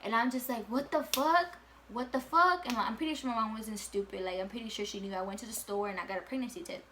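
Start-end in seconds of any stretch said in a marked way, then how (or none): 0.7-2.7 rising disbelief. Retold or imitated. Repeating in shock over the test.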